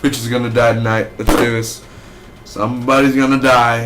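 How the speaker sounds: mock hyped menace; hyped villain. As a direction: pump yourself up for the kill. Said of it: "he was like".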